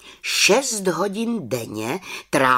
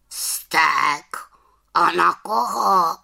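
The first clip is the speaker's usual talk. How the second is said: high, raised raven voice; questioning raven; 7 semitones higher, 4 dB louder, much slower than usual. Acted. Raven asking whom she is angry at, high questioning voice. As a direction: ask it as a puzzled bird, pitched up.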